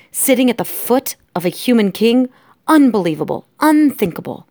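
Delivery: high, emphatic outburst; outraged shouting. Acted. Lester rants about his son, shouting in outrage. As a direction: cry out each outrage. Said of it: "he shouted".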